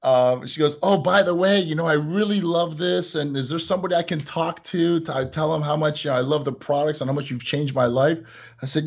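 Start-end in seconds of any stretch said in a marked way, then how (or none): 0.8-8.2 gushing customer. Retold or imitated. Owner imitates a caller gushing about the products. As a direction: gush like a happy customer. Customer voiced in phone story.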